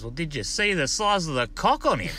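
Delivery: put-on high child voice, amazed; wide-eyed kid marvelling; boy in passenger seat asking mum; young boy. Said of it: "And the young bloke goes".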